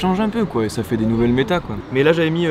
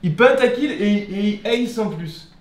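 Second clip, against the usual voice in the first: esports caster; 7 semitones higher, slower than usual. Acted. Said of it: "t'avais commenté les Worlds".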